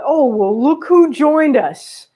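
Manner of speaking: high, loud and slow, pleased; surprised, happy hello to the dog; delighted surprise. Real, not acted. The dog Edgar walks in.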